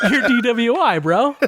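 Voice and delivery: laughing high through the taunt; can't stop laughing mid-sentence. Real, not acted. Telling friends the Twitter story, laughing high.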